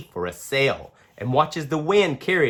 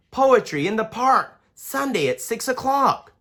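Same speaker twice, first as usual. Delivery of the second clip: sign read out; 9 semitones higher than usual. Acted. Reading sign aloud.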